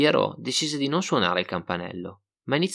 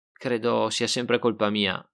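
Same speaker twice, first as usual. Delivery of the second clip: glum; slower than usual. Acted. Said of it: "rispose mesto Miccoli".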